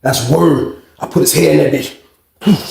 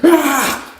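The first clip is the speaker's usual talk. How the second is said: high imitated battle cry; mock crazed scream; 8 semitones higher than usual. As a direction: mimic a wild charging yell. Mimics Billy Bob's crazed cries.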